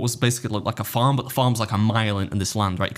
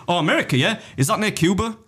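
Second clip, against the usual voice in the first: mock clueless tourist; 8 semitones higher than usual. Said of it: "that's like me saying".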